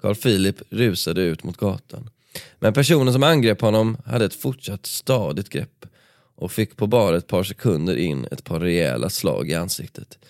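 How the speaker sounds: steady dramatic read-aloud of a book passage; story narration. A narrator's reading. Podcast host reading the nightclub brawl to his co-host, dramatic narration. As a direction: paint the fight scene for the listener.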